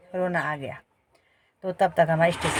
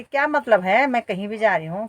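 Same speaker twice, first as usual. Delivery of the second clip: sharp, raised, defensive snap; irritated retort; 3 semitones higher, 3 dB louder than usual. Retold or imitated. Woman snapping back at a pushy stranger, irritated. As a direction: push him off with a pointed question.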